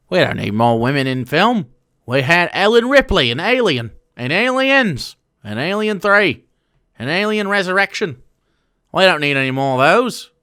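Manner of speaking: a light mocking Australian accent; lightly done Australian bloke voice. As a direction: lampoon the bloke in a half-hearted Australian accent. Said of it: "I think I'm doing an Australian".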